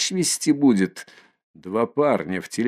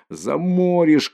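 warning shout; 7 semitones higher, slower than usual. Acted. A bystander warning Mikolka, a high slow shout. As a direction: cry out to stop him. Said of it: "кричит третий".

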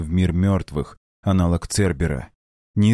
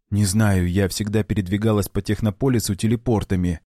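confused. Acted. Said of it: "Голос блондинки звучал растерянно".

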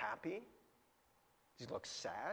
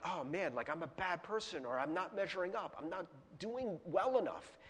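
softer, voicing a guilty believer's inner voice; quiet self-blame; 7 dB quieter than usual. Preacher voicing a guilty Christian's thoughts, softer and deflated. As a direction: mutter it like someone ashamed.

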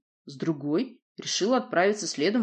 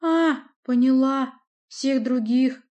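dismissive; 8 semitones higher, 7 dB louder, slower than usual. Acted. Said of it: "показались столь пренебрежительными".

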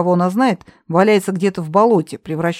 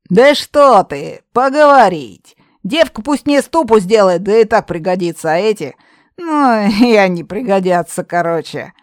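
put-on brash young witch; 2 semitones higher, 5 dB louder than usual. Redhead witch dismissing her aunt, loud scorn. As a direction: bellow it, contemptuous.

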